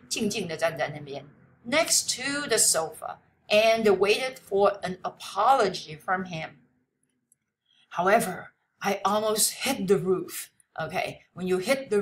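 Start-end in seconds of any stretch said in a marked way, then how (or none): 1.7-10.5 slow, deliberate English reading; read-aloud lesson text. Acted. Teacher reads the passage to students, slow read-aloud. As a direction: read it out slowly for language learners.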